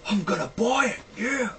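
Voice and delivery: high, squealing excitement; odd high-pitched cheer; excited, weird voice. Real, not acted. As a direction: burst out thrilled, pitch leaping up. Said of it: "Sorry if my voice sounds a bit weird".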